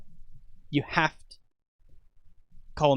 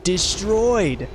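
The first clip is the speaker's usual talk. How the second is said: excited shout; 6 semitones higher, 3 dB louder than usual. Real, not acted. Boss killed fast.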